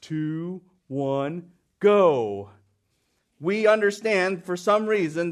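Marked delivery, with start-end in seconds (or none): 0.0-2.5 countdown. Shown as a demonstration. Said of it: "We say".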